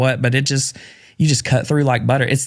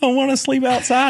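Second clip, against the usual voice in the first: very high, sobbing, whining crying wail; 12 semitones higher than usual. Retelling how Cadence cried while the tent broke: imitating Cadence crying. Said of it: "Cadence is crying".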